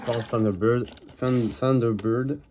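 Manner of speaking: English words with a French accent; loud, slow try at an English accent; accent anglais approximatif. Real, not acted. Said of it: "mon accent anglais est plutôt correct". (accent anglais hésitant, à la française)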